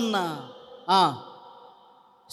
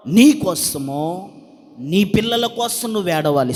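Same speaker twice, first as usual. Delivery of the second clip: slow repeat. Shown as a demonstration. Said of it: "స్తోత్రం చెప్పు, మంచిగా చెప్పు".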